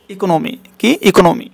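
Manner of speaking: ইকোনমি falling, with plain k; ordinary pronunciation. Shown as a demonstration. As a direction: say ইকোনমি as flat "i-ko-no-mi". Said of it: "কি হবে এখানে?".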